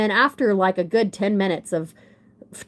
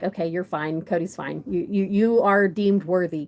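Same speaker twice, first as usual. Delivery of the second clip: grudging dad; 3 semitones lower than usual. Retold or imitated. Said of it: "Dad's kind of like".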